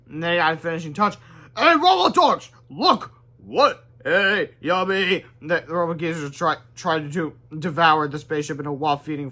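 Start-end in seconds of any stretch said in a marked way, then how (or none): 1.6-5.2 high, loud playful voices; cartoon robot chatter. Hero luring robots toward spaceship, playful high calls. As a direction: lure them, then gobble.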